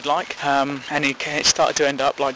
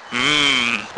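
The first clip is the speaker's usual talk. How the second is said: approving hum; 3 semitones lower than usual. Retold or imitated. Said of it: "like it and go".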